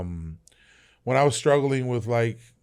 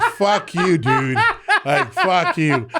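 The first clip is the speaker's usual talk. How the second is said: higher, laughing mock-angry retort; laughing fuck you; 7 semitones higher, 4 dB louder, much slower than usual. Soldier teased about parachute wings, cursing through laughter. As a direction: laugh it off as you curse him. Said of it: "I was like".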